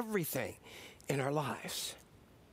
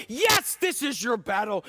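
emphatic praise; 4 dB louder than usual. Retold or imitated. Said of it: "They're like".

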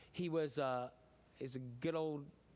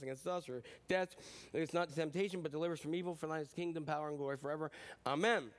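steady devout recital of the prayer; reciting the Lord's Prayer; prayer recitation. Acted.

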